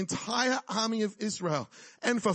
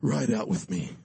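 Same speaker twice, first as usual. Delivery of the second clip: much lower, heroic epic-movie voice; mock Aragorn; 12 semitones lower than usual. Mocking a movie king rallying riders, deep and grand. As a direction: ham up a grand battle cry. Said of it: "this wasn't Aragorn theater".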